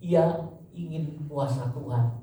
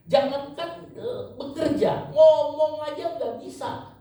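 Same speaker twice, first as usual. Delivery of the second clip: much higher, louder desperate plea; preacher as Moses begging God to go with him; 6 dB louder than usual. Acted. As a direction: cry out to God as a frightened, weak man. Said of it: "Musa mengatakan".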